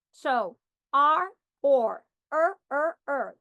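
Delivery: R, or and er said in a row; r sounds compared. Shown as a demonstration. Teacher shows the r sounds match. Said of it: "they sound the same".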